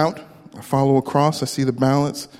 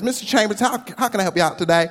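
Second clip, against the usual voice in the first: put-on southern accent; 5 semitones higher, faster than usual. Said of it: "someone with a southern accent".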